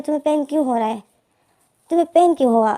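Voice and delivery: worried questioning. Acted. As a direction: press him, alarmed that he is hurt.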